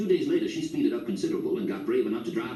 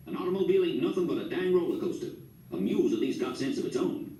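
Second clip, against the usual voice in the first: put-on higher, fussy old man griping; a hint of a cranky grandfather; grumbling grandpa; 6 semitones higher than usual. A narrator's reading. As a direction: gripe like a stubborn old farmer. Grandpa grumbling about cars.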